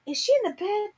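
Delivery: put-on unsure if her child is there; anxious questioning. Retold panic searching for daughter.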